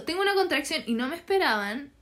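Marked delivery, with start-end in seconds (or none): 0.0-0.8 higher-pitched urgent announcement, retold; telling the staff. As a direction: retell it as a raised-pitch plea. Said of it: "y yo les digo".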